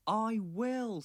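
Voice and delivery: high, loud eager promise; excitedly. Acted. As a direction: burst out eager and sure. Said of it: "said Thomas excitedly".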